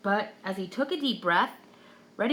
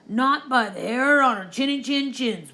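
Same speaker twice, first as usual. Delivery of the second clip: higher, louder wolves' chant; defiant little wolves; 5 semitones higher, 5 dB louder than usual. A narrator's reading. Wolves answering the pig, high and defiant. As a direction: stand firm, little wolves.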